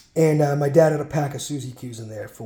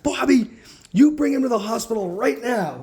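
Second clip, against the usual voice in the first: raised, insistent mock scolding; bossy mother's order; 5 semitones higher than usual. Mother ordering dad to take son to hospital, imitated firm demand. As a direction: imitate a mom laying down the law, pitched up.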